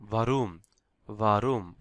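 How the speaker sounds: "ভারুম" with open ah, vah-room. Shown as a demonstration. Teacher models German for why, open-ah pronunciation. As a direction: open the first vowel of "ভারুম". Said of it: "এ এর উচ্চারণ হবে আ".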